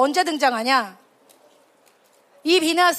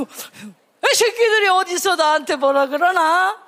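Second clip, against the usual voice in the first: drawn-out, playful mock outrage; mock indignation; 2 semitones higher, slower than usual. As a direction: grumble slowly in mock offence. Acting an offended person's retort.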